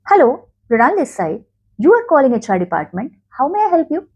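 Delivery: warm, welcoming phone greeting; friendly greeting. Shown as a demonstration. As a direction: greet the caller kindly. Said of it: "Instead, try this".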